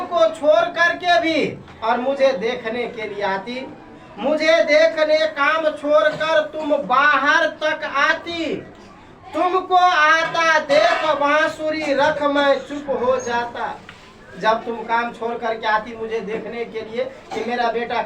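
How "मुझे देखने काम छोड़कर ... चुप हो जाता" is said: poem recitation. Acted. Teacher reciting the poem to students, raised lilting verse.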